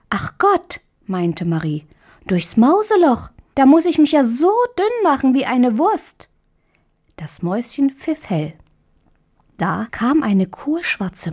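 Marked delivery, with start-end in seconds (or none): 0.1-6.3 put-on girl's voice, high, half-laughing dismay; a small girl groaning "oh dear"; dismayed little girl. Marie dismayed at mousehole. (Marie, entsetzt und kindlich)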